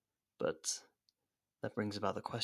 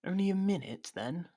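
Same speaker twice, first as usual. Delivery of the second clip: high, loud startled exclaim; shocked; 10 semitones higher, 5 dB louder than usual. Acted. Captive learning the potion works fast, startled. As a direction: jolt up in alarm.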